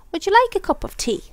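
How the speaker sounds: cheerful Mr Happy. Acted. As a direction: offer tea cheerfully, voice lifted high. Mr Happy offering tea kindly.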